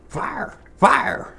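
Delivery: high, loud, hammed-up cry; mock alarm. Cook yelling as the pan smokes, mock alarm. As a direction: play up a kitchen panic.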